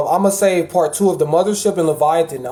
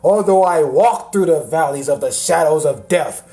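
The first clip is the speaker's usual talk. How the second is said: mock psalm recital. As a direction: intone it like a half-hearted churchgoer. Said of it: "And then the backup one".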